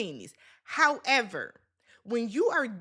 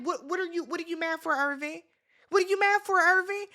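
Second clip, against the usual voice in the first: indignant retort; 5 semitones higher, faster than usual. Retold or imitated. Retelling confronting Irvin, a building indignant challenge. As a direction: push back hard, building to a demand.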